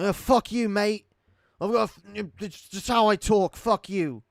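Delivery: high, loud mock outrage; angry retort. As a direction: snap back in exaggerated, defensive British indignation. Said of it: "I used to get really fucking mad".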